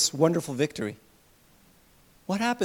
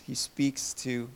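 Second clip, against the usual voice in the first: still small voice; 6 semitones lower, 7 dB quieter than usual. A narrator's reading. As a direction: say it gently, like a whisper of grace. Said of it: "in a still small voice".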